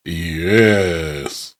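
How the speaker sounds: lightly put-on voice of an all-seeing Watcher. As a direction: stretch it out, low and grave. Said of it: "that's my Watcher voice".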